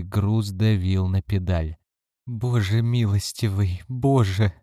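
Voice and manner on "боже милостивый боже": sobbing. Acted. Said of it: "рыдала Карлотта".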